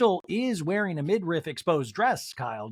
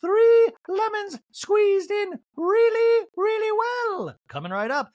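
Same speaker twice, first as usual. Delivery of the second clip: very high, loud mock waiter; shrill-free high falsetto waiter bit; fussy waiter voice; 5 dB louder than usual. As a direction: ham up an over-eager server. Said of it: "he's like".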